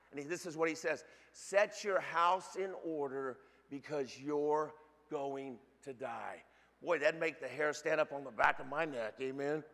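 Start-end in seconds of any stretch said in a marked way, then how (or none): 1.3-6.4 slow, solemn delivery sinking low on the last words; solemn pronouncement. Acted. Prophet telling a sick king his fate, slow and solemn. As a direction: pronounce the sentence slowly, dropping away at the end.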